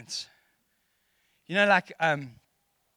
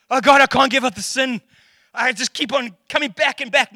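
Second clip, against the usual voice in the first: raised, pleading whine; whiny excuse; 6 semitones higher, 6 dB louder than usual. Retold or imitated. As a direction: whine like a churchgoer who won't change.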